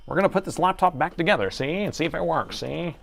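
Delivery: goofy voice. Acted. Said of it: "All these voices that I do".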